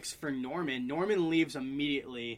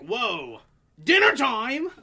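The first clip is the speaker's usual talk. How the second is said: mock cheery call; 6 semitones higher, 8 dB louder, much slower than usual. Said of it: "He's like".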